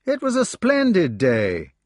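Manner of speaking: put-on high, eager young voice bursting out; excited exclamation. Gareth bursting in about the hawking, high and excited. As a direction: gush about the day. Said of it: "exclaimed Gareth".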